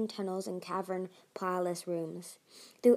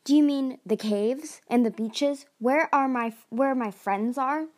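worried; 4 semitones higher, 6 dB louder than usual. Acted. Worried about her friends.

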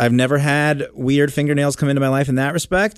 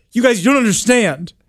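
put-on whiny kid voice; 9 semitones higher, 3 dB louder than usual. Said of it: "He goes".

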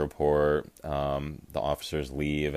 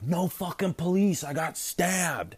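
high-pitched mock scream of panic; retold scream. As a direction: yell it high like the panicking stabbed kid. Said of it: "he screams".

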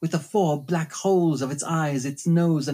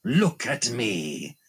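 mock roaring phantom; 6 semitones lower, slower than usual. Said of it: "he roared".

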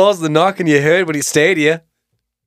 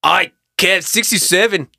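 German voice; 3 semitones higher than usual. Acted. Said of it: "do my German voice".

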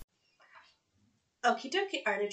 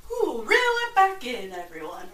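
hammed-up ride attendant; ride operator; 7 dB louder than usual. Ride operator mock instruction.

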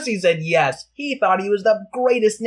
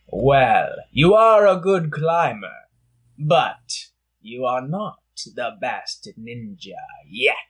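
calm wise master; 6 semitones lower, slower than usual. Acted. Master gently corrects pupil.

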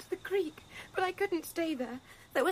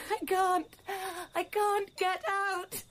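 crying; 2 semitones higher, slower than usual. Acted. Molly breaks down.

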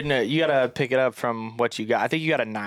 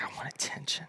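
whispered whine; 14 dB quieter than usual. Retold or imitated. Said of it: "so she's just like".

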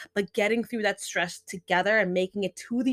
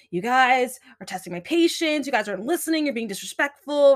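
a touch louder, exasperated teacher scolding the class; mock scolding; 4 semitones higher, 4 dB louder than usual. Teacher showing how not to scold students, mildly irritated mock scolding. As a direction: play the impatient teacher who talks down to the kids. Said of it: "Talking down to them".

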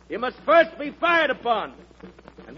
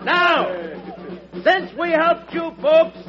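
rallying shout. Acted. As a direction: rouse the crowd, call it out. Rousing a crowd of townsmen.

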